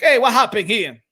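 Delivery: put-on brash Dominican accent, voice up high; Jason Rosario impression. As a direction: do a hyped Dominican boxer calling out the Charlos, Spanglish accent. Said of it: "If he brings that out, that machismo".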